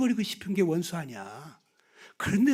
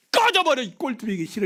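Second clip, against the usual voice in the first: mock backhand insult; 3 semitones higher than usual. Shown as a demonstration. Preacher demonstrating a right-cheek slap, a mock yell. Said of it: "이렇게 때려야 돼요".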